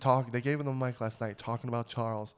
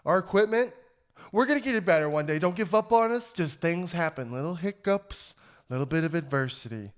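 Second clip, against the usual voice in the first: mock pep talk; 4 semitones higher than usual. Real, not acted. Apologizing to listener Jobins.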